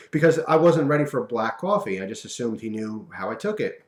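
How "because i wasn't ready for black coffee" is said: whispered laugh. Real, not acted. Laughing at own mishap.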